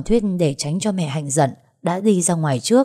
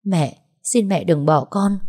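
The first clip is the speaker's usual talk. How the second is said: begging; slower than usual. Acted. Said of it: "níu chân mẹ rồi quỳ sụp xuống".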